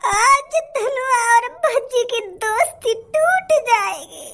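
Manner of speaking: hammed-up wailing over his friend; fake crying. Friend wails fake sobs at his condemned buddy. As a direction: melodramatic mock sobbing with slow wails. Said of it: "काय को नाटक कर रहा तू मेरे सामने रोने का".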